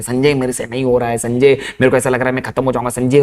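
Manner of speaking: mildly acted crying, kept low; tearful friend. Friend tells Sanjay he is finished, mildly tearful. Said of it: "रोते हुए सुना मैं".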